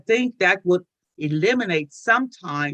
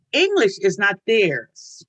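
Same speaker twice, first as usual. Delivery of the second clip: ordinary talk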